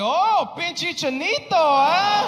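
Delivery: high, loud sneering voice of a heckler; mocking stranger. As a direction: taunt him like a rude stranger. Racist stranger voiced in story.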